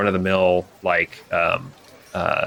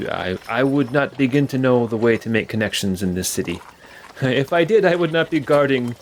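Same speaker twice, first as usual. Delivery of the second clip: guard; 3 semitones higher than usual. Acted. GM voices the guard.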